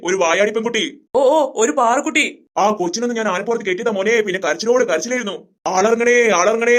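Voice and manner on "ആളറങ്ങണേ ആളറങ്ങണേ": slow, mildly raised mock cry; imitated clamour. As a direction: imitate a fussing child's wail, half-hearted. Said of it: "എന്തോ ഒരു ഒച്ചപ്പാടായിരുന്നു". (ബഹളം അനുകരിച്ച് നീട്ടി വിളിക്കുന്നു)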